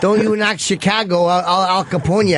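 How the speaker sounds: mock-threatening Chicago tough guy; Chicago accent. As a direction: defend the city in a put-on Chicago accent. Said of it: "Chicago Edgar".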